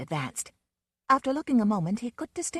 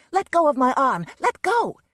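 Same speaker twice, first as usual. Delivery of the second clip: angry demand; 8 semitones higher, 8 dB louder than usual. A narrator's reading. Struggling against grip.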